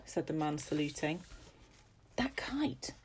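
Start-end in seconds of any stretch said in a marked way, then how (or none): 2.2-2.9 hushed, breathy whisper. Acted. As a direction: lean in and whisper to father. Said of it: "whispered Henry".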